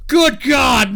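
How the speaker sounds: Good God shouted out; loud exclaim. Real, not acted. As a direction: belt it out in disbelief. Reacting to the donations.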